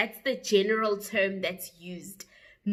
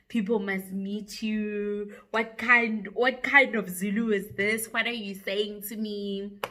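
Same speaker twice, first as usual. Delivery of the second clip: mock incredulity. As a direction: imitate someone baffled by her Zulu. Retold agent mocking her Zulu.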